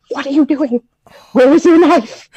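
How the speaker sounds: high-pitched, appalled grandma voice; scolding grandmother. Acted. Grandmother catches child using just a fork, scolding. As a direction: play a grandmother aghast at table manners. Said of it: "and she's like".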